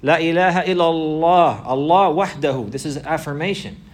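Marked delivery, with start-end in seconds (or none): 0.0-2.7 slow and louder, every word weighted; a slow, solemn emphatic declaration; emphasized. Shown as a demonstration. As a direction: lean hard on each word to drive it home. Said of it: "Emphasizing the affirmation".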